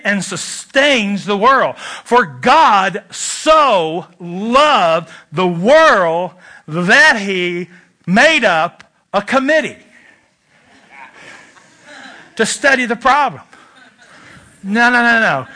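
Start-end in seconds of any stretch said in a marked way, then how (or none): 1.8-13.4 mock-solemn scripture. Joke misquote read very slowly.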